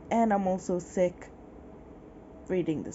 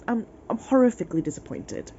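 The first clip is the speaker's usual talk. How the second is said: ordinary delivery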